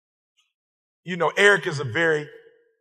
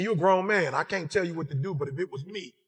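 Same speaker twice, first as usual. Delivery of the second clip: wife's hushed, grave advice, sinking softer; quiet warning; 4 semitones lower, 8 dB quieter than usual. Retold or imitated. Wife quietly warning her husband not to touch it, hushed. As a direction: lean in and caution him gently and low. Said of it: "She said".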